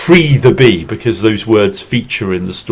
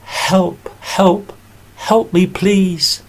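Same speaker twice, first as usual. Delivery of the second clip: high, small pleading bee voice; bee crying for help; 6 semitones higher, slower than usual. Acted. Trapped bee under the glass begging for help, high and pleading. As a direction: squeak out a desperate plea from under the glass. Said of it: "Let's say it together".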